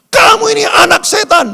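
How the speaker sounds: high, loud furious yell; angry shout. Retold or imitated. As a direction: scream it at the child in rage. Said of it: "kalau dia udah teriak anak setan". (teriakan marah keras dan tinggi)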